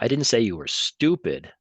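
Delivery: hard denial on "didn't"; stress on didn't. Shown as a demonstration. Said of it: "six different ways to say".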